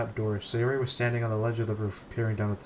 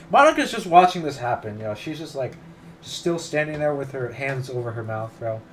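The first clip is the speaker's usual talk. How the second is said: loud exasperated complaint; 3 semitones higher, 8 dB louder than usual. Real, not acted. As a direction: throw it up in frustration. Repeats complaint about Monika, louder.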